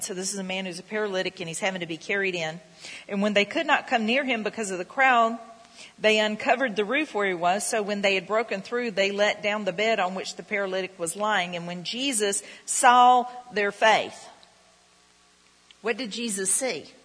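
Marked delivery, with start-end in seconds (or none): 3.1-14.3 measured pulpit reading of the Bible; scripture reading. Acted. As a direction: read the verse out to the congregation. Reads scripture aloud.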